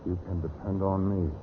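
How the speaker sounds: low, slow and deliberate; measured assurance. Acted. Witness promising to tell police everything, measured.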